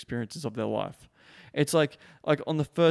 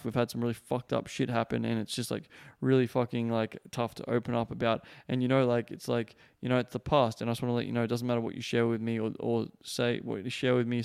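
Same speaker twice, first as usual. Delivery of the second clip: lightly lowered, sincere reassurance; heartfelt. Shown as a demonstration. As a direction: open up earnestly, letting her know it's safe. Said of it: "say it from a head and heart space".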